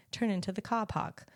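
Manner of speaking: lightly imitated Australian navigation voice; Aussie accent. Host copying her Aussie navigation voice, light Australian accent. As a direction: copy an Aussie sat-nav's accent. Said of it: "an Aussie accent. So I copy him sometimes".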